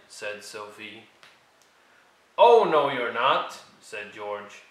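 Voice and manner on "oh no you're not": loud refusal. Acted. George refusing entry.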